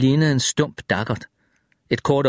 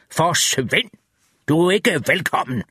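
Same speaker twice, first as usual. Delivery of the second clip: raised voice; 4 semitones higher than usual. A narrator's reading. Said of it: "Og så hævede han stemmen".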